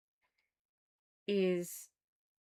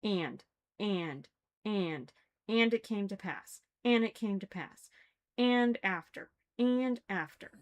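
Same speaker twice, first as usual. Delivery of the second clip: mocking droning scripture; 3 semitones higher, 5 dB louder than usual. Shown as a demonstration. Mocking the book's style to listeners, building mock recital. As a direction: parody the repetitive old scripture phrasing, building up. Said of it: "Every single paragraph starts with "and".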